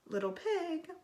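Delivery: the shark calls at the door, growing upset. A narrator's reading. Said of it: "called the magic shark, growing upset".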